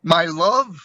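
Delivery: put-on harsh Brooklyn accent. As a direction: woo her with a touch of tough Brooklyn. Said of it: "in his harsh kind of Brooklyn accent".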